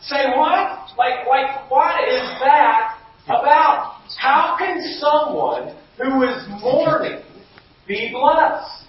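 feigning disbelief at the verse; mock bafflement. Pastor reacting to the Beatitude, mock bafflement. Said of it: "I'm like".

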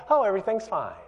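falsely breezy cover-up, dropping from the rant; fake calm. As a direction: pretend all is well in front of company. Parent faking calm before kids' friends.

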